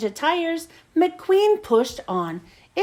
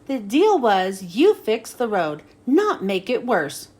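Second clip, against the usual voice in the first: grumbling; 3 semitones lower than usual. Acted. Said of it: "grumbled Doc".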